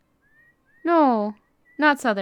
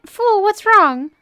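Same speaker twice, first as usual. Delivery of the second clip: mock sass; 8 semitones higher, 6 dB louder, slower than usual. Retorting to game character.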